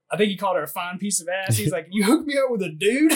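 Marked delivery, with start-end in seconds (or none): 1.9-3.1 high, loud incredulous outburst; flipping out. Retold or imitated. Airman confronting his sergeant over the set-up, flipping out. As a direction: imitate outraged disbelief, voice shooting up. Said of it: "he just flips out".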